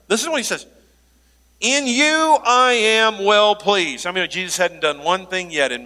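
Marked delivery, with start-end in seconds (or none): 1.6-4.1 Father's blessing. Acted. Voicing Father God.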